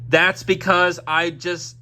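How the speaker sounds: talking through a burp; words broken by a burp. Real, not acted. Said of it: "Sorry about me burping there".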